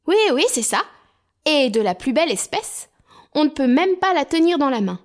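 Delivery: aigu et plus fort; enthousiaste. Acted. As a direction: vante ton trésor avec fougue. Hans vante sa boue. (Hans vante sa boue à ses frères, enthousiaste)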